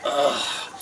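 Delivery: voiced-out groan of effort; mock sigh of putting down a load; weary groan. Travelers setting down their long rods, weary groan.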